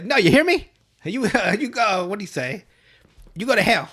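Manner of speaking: high, loud, furious rant; hat puppet yelling. Retold or imitated. Hand puppet yelling at the boy, high and furious. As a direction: scream it like a deranged puppet. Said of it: "He's like".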